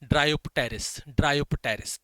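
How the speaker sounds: "Dryopteris" drawn out very slowly, relishing each syllable; savouring the name. Shown as a demonstration. Teacher enjoying saying a plant name, slow and relishing. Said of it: "कितना अच्छा लगता है ये नाम बोलने में".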